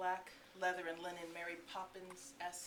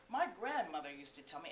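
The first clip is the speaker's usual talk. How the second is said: lightly lilting funny voice; a hint of sing-song storyteller; Eugene; 3 dB louder than usual. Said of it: "Eugene had this funny way of speaking".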